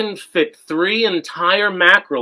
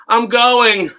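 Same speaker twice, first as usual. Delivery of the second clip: fake orgasm; 6 semitones higher, 4 dB louder than usual. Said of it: "Did D B just have a fake orgasm".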